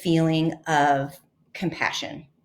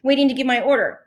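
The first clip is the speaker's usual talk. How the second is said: mild mock shout; 6 semitones higher, faster than usual. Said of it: "he started shouting".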